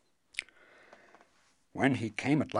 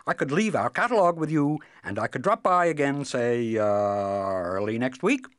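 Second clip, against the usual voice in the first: quick and nervous; 2 semitones higher, 6 dB louder than usual. Acted. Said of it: "he added quickly".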